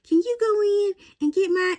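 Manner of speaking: put-on high, part-whispered old lady asking a favor; grandma voice. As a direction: imitate grandma coaxing her granddaughter. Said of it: "And she'd say".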